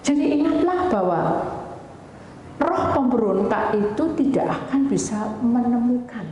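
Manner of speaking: high, emphatic sermon delivery, hammering it home; forceful preaching. Real, not acted. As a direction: proclaim the warning to the congregation. Preacher drives home the moral.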